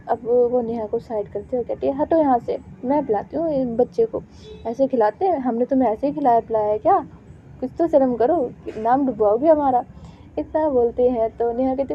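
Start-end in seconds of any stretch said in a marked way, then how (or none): 2.0-9.8 loud, bossy motherly telling-off; scolding. Acted. Mother pushes Neha aside and scolds her, louder telling-off. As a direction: shame her daughter in front of guests.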